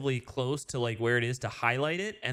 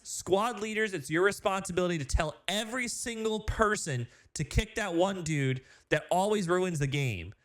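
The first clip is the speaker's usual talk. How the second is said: ranting; 5 semitones higher than usual. Real, not acted. Ranting at a game-ruining player.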